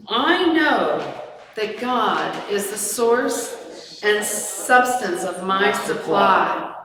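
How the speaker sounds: slow, solemn affirmation; prosperity affirmation. Acted. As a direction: recite it like a slow blessing. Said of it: "do our prosperity blessing".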